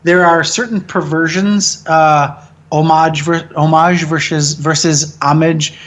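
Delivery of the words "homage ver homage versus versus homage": homage as French oh-MAHZH, then homage as AH-mij; two pronunciations. Shown as a demonstration. Language nerd weighing an example, homage French then anglicized.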